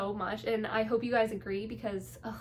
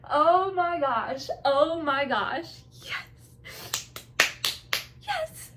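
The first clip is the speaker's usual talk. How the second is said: slow, louder, higher oh my gosh, near tears of joy; overjoyed; 5 semitones higher, 5 dB louder, much slower than usual. Real, not acted. Fan overwhelmed by the girlfriend scene, slow and overjoyed. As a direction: draw it out, overcome with happiness.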